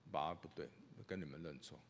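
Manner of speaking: a gentle, sincere sorry to his daughters; soft apology. Retold or imitated. (低声温和地道歉)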